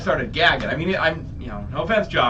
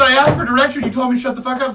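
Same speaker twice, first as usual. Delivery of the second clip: raised, louder self-justifying comeback; retold protest; 6 semitones higher, 5 dB louder than usual. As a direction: argue back at the boss. Helper argues back, retold.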